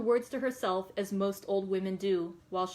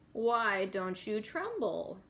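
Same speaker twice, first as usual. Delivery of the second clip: gypsy voice; much slower than usual. Acted. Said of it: "I'm gonna try to do a little bit of a gypsy voice".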